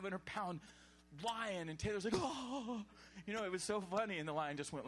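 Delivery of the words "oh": high imitated cry of fright; mock startled gasp. Preacher mimicking man startled by lion, high mock gasp. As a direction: yelp as if a lion leapt at you.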